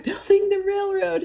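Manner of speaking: real laugh breaking into the words; laughing while talking. Real, not acted. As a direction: laugh your way to the end of the question. Laughing at her own retold question.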